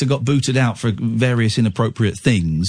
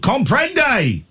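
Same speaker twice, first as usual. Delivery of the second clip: high, emphatic Comprende shouted in jest; exasperated mock Spanish; 12 semitones higher than usual. Host teasing the caller with a high exaggerated Comprende. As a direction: throw the word Comprende up high in mock despair. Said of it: "coming across in French".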